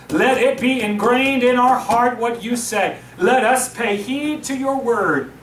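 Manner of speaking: reverent pulpit prayer. Acted. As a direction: lead the church in prayer. Pastor leads a prayer.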